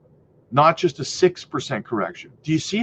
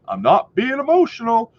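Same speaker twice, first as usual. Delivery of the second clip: higher, louder mocking voice of a defensive commenter; mock stubborn commenter; 8 semitones higher, 4 dB louder than usual. Mocking toxic commenters to his viewers, higher and louder. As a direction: parody a commenter who insists he's objective. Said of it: "making comments like".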